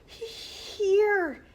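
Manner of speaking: high, loud stammering dragon voice; hissing dragon. A narrator's reading. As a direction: stutter it out as the dragon. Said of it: "hissed the dragon".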